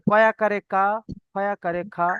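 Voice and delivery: "কা" and "খা" ending on open aa; spelling-out drill. Shown as a demonstration. Teacher repeating the zabar example, "কা", "খা" sounded out with aa. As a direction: spell the letter, then sound "কা", "খা". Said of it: "এইরকম ভাবে উচ্চারণ হবে".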